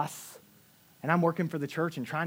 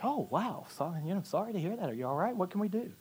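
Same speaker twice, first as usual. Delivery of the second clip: concerned sympathy; 8 dB quieter than usual. Retold or imitated. Sympathizing with his sick wife.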